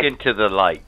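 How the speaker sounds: low, shouted command into the light; commanding alien voice. Acted.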